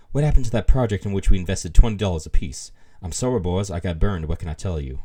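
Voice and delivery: put-on beatnik voice with a slight Southern accent; beatnik turning southern. Reading a beatnik slang example aloud, beatnik voice sliding Southern. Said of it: "my beatnik voice is all of a sudden turning southern".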